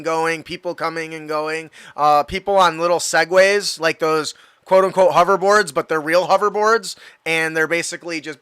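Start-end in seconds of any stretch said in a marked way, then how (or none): none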